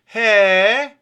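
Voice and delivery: sharp, loud, high huh; puzzled huh. A narrator's reading. Siggi, not following his friend, a loud puzzled huh. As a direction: blurt out a baffled huh. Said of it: "fragt aufmerksam".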